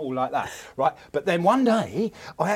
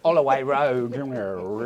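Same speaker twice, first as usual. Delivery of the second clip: impression dropping out of posh, lower; a singer; 4 semitones lower, slower than usual. Comedian showing how the singer's voice switches, lower impression. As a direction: let the posh voice slump down. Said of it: "then he goes all sort of like".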